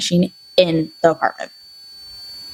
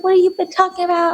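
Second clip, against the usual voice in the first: dad; 11 semitones higher, faster than usual. Retold or imitated. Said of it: "He's like".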